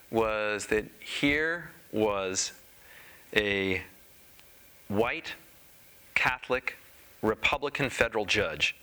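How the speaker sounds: deliberate oratory in short, paused phrases; solemn quotation. Retold or imitated. Speaker recites columnist's observation on Tucson, solemn quotation. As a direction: weigh each identity, letting pauses land.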